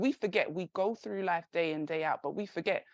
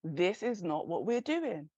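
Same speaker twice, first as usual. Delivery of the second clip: firm inner voice; slower than usual. Retold or imitated. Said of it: "It kept tapping me and saying".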